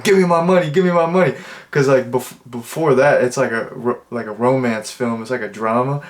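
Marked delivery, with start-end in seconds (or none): 0.0-1.3 mock threat. Drug dealer pulls a gun.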